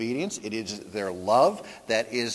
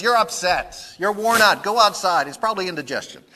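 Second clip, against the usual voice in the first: much higher, loud dismissive wife; brushing-off Golda; 7 semitones higher, 9 dB louder than usual. Retold or imitated. Golda dismisses Tevye's question, loud and high. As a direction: swat the question away. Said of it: "And she says".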